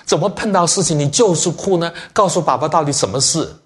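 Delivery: put-on high, coaxing father voice to a crying child. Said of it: "我说".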